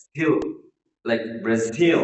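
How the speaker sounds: Brazil with the weight on "ZIL"; stress on last syllable. Shown as a demonstration. Teacher modelling Brazil for learners, last-syllable stress. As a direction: lean on the final syllable of Brazil. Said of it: "the last syllable is stressed".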